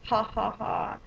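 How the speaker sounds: imitating a brother's teasing jibe with a big fake ha-ha; hammed-up mocking question, loud and drawn out on the punchline; mock laughing. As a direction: tease with a put-on, spelled-out laugh. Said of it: "he's just laughing. He's like".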